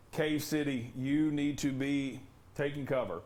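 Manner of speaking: talking around a cough drop; words round a lozenge; cough drop in mouth. Real, not acted. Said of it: "I have a cough drop in my mouth".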